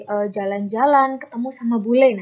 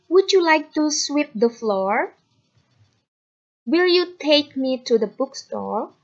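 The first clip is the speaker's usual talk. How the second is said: slow, clear English example sentences; slow model reading; 2 semitones higher, slower than usual. Shown as a demonstration. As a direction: read each one slowly for the class. (membaca contoh kalimat dengan lambat dan jelas)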